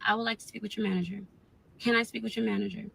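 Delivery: fast, clipped request for the manager; quick, tense manager request; rushed demand. Retold or imitated. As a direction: rush it out, barely holding it together. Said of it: "Like, I am trying to calm down".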